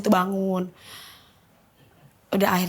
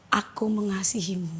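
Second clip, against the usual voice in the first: softer, slightly lower, tender quote; gentle retold voice; 3 semitones lower, 6 dB quieter than usual. Unseen voice to someone about to drink poison, gently. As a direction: imitate a gentle voice speaking softly. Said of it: "Suaranya lembut banget gitu".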